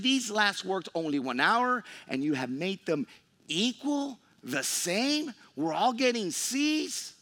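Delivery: grumbling complaint. Acted. Workers grumble to owner.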